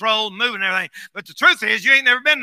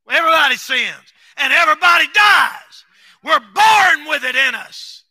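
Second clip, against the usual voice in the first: preaching shout; 3 semitones higher, 4 dB louder than usual. Real, not acted. Preaching at full force.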